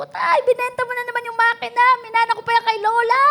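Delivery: high, fast, heated protest; angry at father. Retold or imitated. Son confronting his father over the sold heirloom, angry and high. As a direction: retell yelling at your dad over the sold machine. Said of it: "galit na galit ako sa tatay ko".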